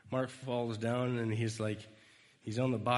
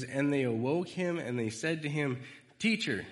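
raised reading voice; 4 semitones higher than usual. Acted. Reading the Bible verse aloud.

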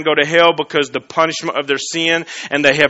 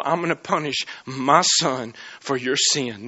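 lower, much softer solemn Father; hushed voice of the Father; 4 semitones lower, 10 dB quieter than usual. Acted. God the Father resolving to punish his son, low and solemn. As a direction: say it low and grave, like a vow. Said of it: "the Father loved me and you enough to go".

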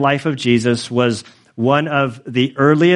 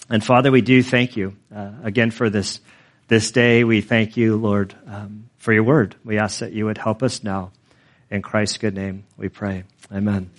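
prayer; 3 semitones lower than usual. Acted. Pastor prays after reading.

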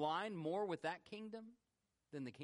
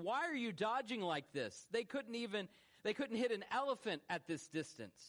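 lightly acted scolding, pitch raised; mild retold scolding; 4 semitones higher than usual. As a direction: imitate an officer chiding his men. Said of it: "he reportedly scolded them".

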